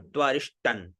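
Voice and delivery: त्वरिष्टन ending in a clear n sound; pronunciation model. Shown as a demonstration. Teacher explains the anusvar, त्वरिष्टन with final n sounded. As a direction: close त्वरिष्टन on "tan". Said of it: "अनुस्वार तो न का उच्चारण".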